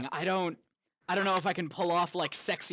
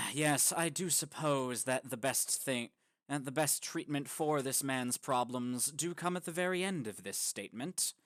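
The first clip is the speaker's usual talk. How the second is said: dry, deadpan Johnny Sims; 4 semitones lower, 4 dB quieter than usual. Retold or imitated. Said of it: "he's very dry".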